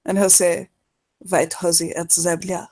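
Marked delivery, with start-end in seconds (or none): 1.2-2.7 mock Russian. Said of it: "What he said in Russian was".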